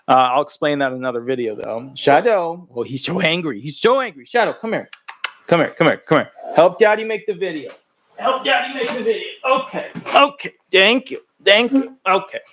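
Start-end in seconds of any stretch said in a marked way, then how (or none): 4.5-12.4 much higher cooing pet voice. Real, not acted. Cooing to the dog.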